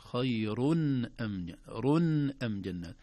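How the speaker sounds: خير أم جنة with the nun of tanween said clearly, khayrun am. Shown as a demonstration. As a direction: recite خير أم جنة slowly showing izhar. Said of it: "نطقنا نون التنوين".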